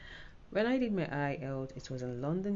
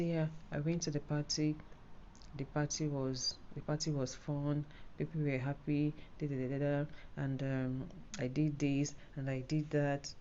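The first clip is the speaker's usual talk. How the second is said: flat, softer, no rise or fall; monotonous; 4 dB quieter than usual. Shown as a demonstration. Exam tutor showing a dull happy story, monotonous. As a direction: tell it flatly, like reading a list. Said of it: "everything's monotonous".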